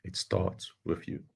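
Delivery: slow, soft closing line; quiet close. Acted. Speaker closes his talk to the audience, slow and soft. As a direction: say it slowly and gently.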